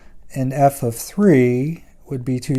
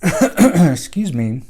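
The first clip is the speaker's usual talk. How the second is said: losing voice; 4 semitones higher, 3 dB louder, slower than usual. Real, not acted. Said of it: "I'm losing my voice here".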